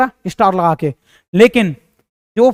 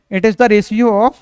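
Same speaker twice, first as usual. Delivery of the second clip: dictation; much slower than usual. Shown as a demonstration. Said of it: "लिख लो यहाँ पे".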